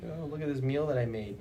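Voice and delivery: high, put-on boast; mocking show-off. Mocking people who flex their cooking, high put-on boast.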